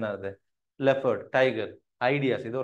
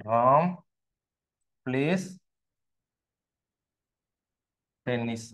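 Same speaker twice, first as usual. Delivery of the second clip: long pause after Ram and after place; spaced out as if writing it; word-by-word dictation; 2 semitones lower, slower than usual. Shown as a demonstration. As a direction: dictate one word at a time. Dictates example while writing it.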